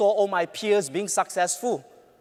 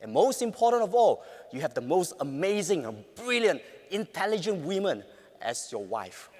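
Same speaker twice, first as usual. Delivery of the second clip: gentle but firm; 2 semitones lower, 4 dB quieter than usual. Retold or imitated. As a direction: reassure him gently. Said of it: "Gentle but firm".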